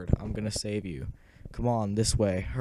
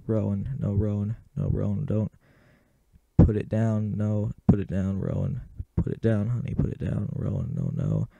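frantic, much louder pleading yell; desperate screaming; 13 dB louder than usual. Acted. A mother screaming at her daughter Rowan to put it down, frantic yell. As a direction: scream it at her to stop, all-out panic.

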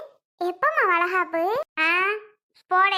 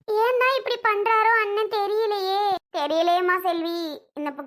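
tearful lament. Acted. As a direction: pour out grief to a visiting relative. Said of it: "அழுகாதியேம்மா".

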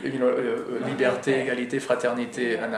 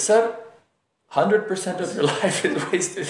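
put-on high Bangladeshi-accented punchline, breaking into laughter; mock Bangladeshi accent; 6 semitones higher than usual. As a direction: deliver the boatman's verdict in a Bangladeshi accent, amused. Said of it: "making fun of the Bangladeshi accent".

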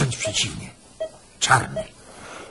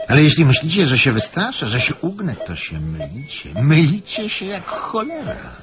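defiant outburst; 5 dB louder than usual. Acted. Prisoner defies guards.

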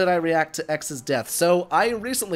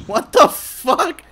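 slow, high, loud stunned outburst; shocked disbelief; 11 semitones higher, 10 dB louder, much slower than usual. Real, not acted. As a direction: drag it out in total shock. Shocked by a crude joke.

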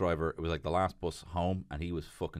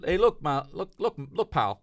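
calling out; 9 semitones higher, 6 dB louder than usual. Retold or imitated. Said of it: "so I said".

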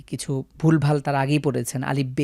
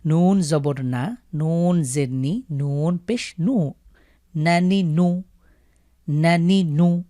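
drill reading; slower than usual. Shown as a demonstration. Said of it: "দ্রুত পড়তে হবে".

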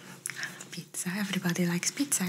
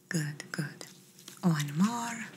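gentle doctor whispering throughout; ASMR whisper. Acted.

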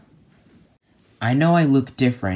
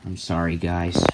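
much softer, lower apology; sad apology; 8 semitones lower, 5 dB quieter than usual. Acted. Changed hero apologizes to friends, soft and sad. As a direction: apologize quietly, downcast.

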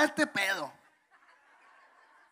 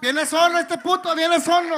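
teasing call; 5 semitones higher, 6 dB louder than usual. Real, not acted. Teasing call to arriving friend.

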